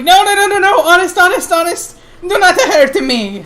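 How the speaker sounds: high, hammed-up bad Italian accent for a scared goblin; pleading goblin in a deliberately awful Italian accent; terrified goblin begging in a horrid Italian accent. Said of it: "your Italian accent is horrid".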